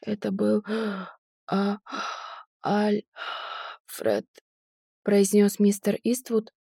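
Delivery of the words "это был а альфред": fading, breathless whisper; last gasping breath; shallow breathing. A narrator's reading. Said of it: "задыхаясь". (последним выдохом)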